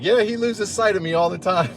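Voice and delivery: high lightly voiced woman trainer; chirpy trainer voice; female trainer. Trainer joking to the young man, lightly voiced high.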